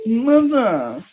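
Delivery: high loud call; calling son. Pretend. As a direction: call out for mother. Son calls out.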